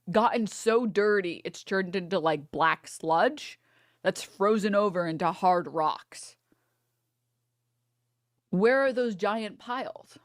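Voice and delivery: slow, drawn-out puzzled wondering; mock bewilderment. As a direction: wonder aloud, slowly baffled. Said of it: "I was like".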